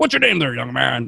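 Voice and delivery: gruff, rough, loud hollering character voice. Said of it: "he was like".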